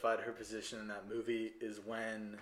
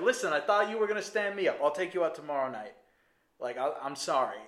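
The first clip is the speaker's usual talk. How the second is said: high, loud and fast, backing down; flustered Henry; 3 semitones higher, 5 dB louder than usual. Retold or imitated. Henry apologizes to Karen, high, loud and fast. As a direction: rush the apology, then settle. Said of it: "He's like".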